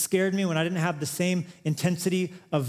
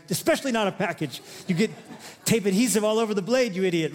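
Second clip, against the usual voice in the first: mock scolding; 4 semitones higher, faster than usual. Wife scolding him over her scissors, mock angry. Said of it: "that's how I hear it".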